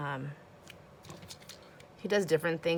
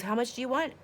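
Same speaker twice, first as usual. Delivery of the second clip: put-on sweet old lady; 7 semitones higher, 3 dB louder than usual. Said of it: "she goes".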